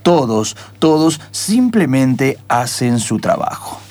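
steady storyteller setting the scene; lightly dramatic narrator voice; radio drama narration. A narrator's reading. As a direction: narrate the airport scene calmly.

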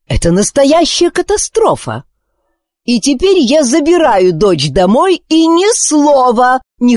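a furious queen laying down the law; indignant queen. Acted. Queen refusing her daughter's dream, outraged and commanding.

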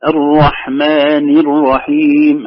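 very slow "الرحمن الرحيم" with each vowel sounded; clear vowels. Shown as a demonstration. Teacher showing how it should be, slow clear recitation. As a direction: recite it drawn out and distinct. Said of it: "هكذا واضحة".

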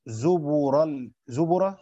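zubura, b given a damma. Shown as a demonstration. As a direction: drag out the u in zubura. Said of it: "الباء عليها ايه". (زُبُرَ بضم الباء)

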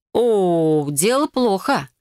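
ordinary delivery, nothing marked

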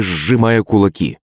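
ordinary delivery, nothing marked

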